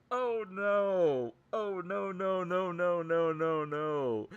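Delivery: high, loud string of alarmed protests; mock panic, sliding down in pitch; retold dismay. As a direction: wail it in exaggerated dread. Retold dread at the callout.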